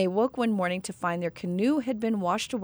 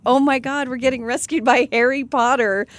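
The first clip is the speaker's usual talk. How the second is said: put-on excited kids; 3 semitones higher, 6 dB louder than usual. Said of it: "they were like".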